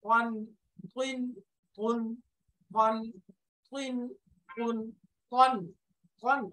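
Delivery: "ওয়ান" and "গুন" repeated evenly, syllable by syllable; Arabic letter drill. Shown as a demonstration. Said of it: "এরপরে ত". ("ওয়ান, গুন" হরফ অনুশীলন)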